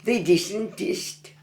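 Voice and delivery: broad, drawn-out Black Country phrase; Black Country dialect. Shown as a demonstration. Local teaching an old saying in Black Country dialect. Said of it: "That means you didn't, did you?".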